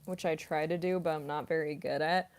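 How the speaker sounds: chewing chips while talking; mouth full. Real, not acted. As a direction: talk through a mouthful. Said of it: "I'm chewing on potato chips".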